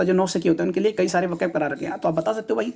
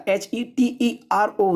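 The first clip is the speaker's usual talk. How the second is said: letters spelled out slowly, one by one; slow spelling out; 2 semitones higher, much slower than usual. Shown as a demonstration. Teacher correcting a spelling for students, slowly. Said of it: "ये ट्रो नहीं होता".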